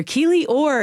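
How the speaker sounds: called out high across the street; called from afar. Retold or imitated. Teacher calls back across a busy street, calling out high. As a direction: shout the name back from a distance. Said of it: "from the distance".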